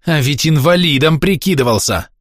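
put-on high, venomous old woman; hate-filled hissing. A narrator's reading. Old woman reproaches Pavel as he leaves, hateful hissing. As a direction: throw the reproach with spiteful hatred. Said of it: "полный ненависти шипящий голос бабки".

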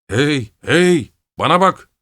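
loud, high call from below; shouting. A narrator's reading. Steward from the garden shouting up at Gerasim. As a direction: yell it up at him, climbing. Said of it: "diye bağırıyordu".

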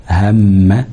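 هم lengthened on the humming م; held ghunna. Shown as a demonstration. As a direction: dwell on the م of هم. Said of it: "أو على الميم المشددة". (مدّ غنة الميم في هم)

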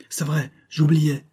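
high, slow cry of remembering; exclaimed realisation. A narrator's reading. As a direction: exclaim it as it comes back to you. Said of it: "s'écria-t-il".

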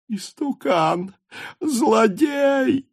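high, furious cry, slow then exploding; angry shout. A narrator's reading. Wife screams insults at her husband, furious. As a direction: hurl the insults at him. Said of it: "злобно закричала женщина".

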